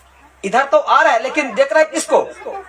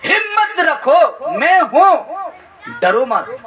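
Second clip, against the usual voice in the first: slow reassurance; 5 semitones higher, slower than usual. Acted. Jesus' words repeated, drawn out.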